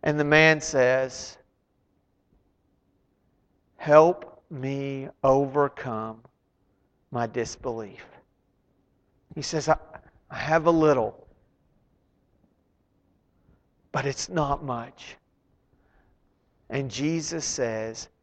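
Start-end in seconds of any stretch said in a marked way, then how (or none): 3.8-15.2 humble plea. Acted. Desperate father admits weak faith.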